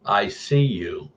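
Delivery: a hint of a low, creepy doll, very slow; "I see you" drawn out slowly and ominously; creepy deep doll voice. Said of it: "in a really deep voice".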